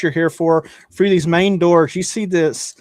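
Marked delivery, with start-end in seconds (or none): none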